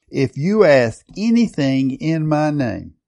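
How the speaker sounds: lightly imitated preacher, slow and emphatic; a hint of an evangelist's measured delivery; Reinhard Bonnke. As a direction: give it a slow, preacherly weight. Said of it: "I can hear Reinhard Bonnke saying this".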